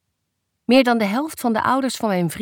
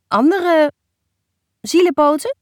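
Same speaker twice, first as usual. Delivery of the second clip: teasing interjection; 7 semitones higher, 7 dB louder than usual. Acted. Daughter teasingly completes mother's halting phrase.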